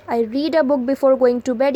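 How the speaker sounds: slow, word by word, for the class; slow dictation read. Shown as a demonstration. Teacher reading an example sentence to students, slow and deliberate.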